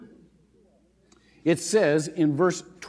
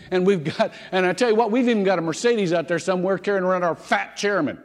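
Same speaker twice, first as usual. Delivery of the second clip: put-on eager young clerk. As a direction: show off the fleet like a keen salesman. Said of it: "young, enthusiastic voice".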